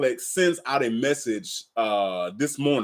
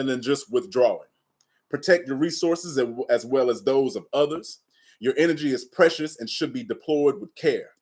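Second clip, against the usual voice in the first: measured, calm reading of a spiritual passage; reading aloud. Acted. Streamer reads the cow lesson to viewers, calm reading voice. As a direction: read the lesson to the viewers steadily.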